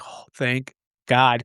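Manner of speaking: slow, drawn-out mock relief; exasperated relief. Wrestler after escaping a third loss, exasperated relief. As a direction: imitate someone worn out and relieved. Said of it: "exasperated after that".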